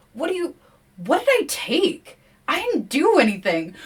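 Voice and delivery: high, alarmed protest; startled yelp. A narrator's reading. William accused by the forest voices, high startled yelp. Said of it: "William yelps".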